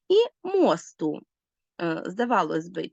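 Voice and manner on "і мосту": мосту said slowly and high, the ending pressed; stress on мосту. Shown as a demonstration. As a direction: stretch out мосту for the class. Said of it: "розрізняємо його за наголосом".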